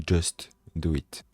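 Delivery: slow Nike slogan in an English accent. Real, not acted. Quoting the Nike slogan to his viewers, in an English accent. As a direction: drawl it out like an English ad tagline, slowly. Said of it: "Oh, l'accent anglais".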